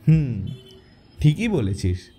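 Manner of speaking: a touch of amusement in the voice; easygoing, smiling assent; smiling agreement. Acted. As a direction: agree with a smile. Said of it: "অনেক হাসি মুখে বলল".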